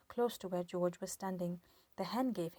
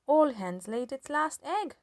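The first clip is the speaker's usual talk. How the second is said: put-on old woman shouting; 6 semitones higher, 8 dB louder than usual. A narrator's reading. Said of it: "Grandma shouted".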